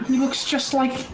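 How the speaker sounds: high, pleading protest left unfinished; desperate insistence. Acted. Reed insists it is Bartholomew.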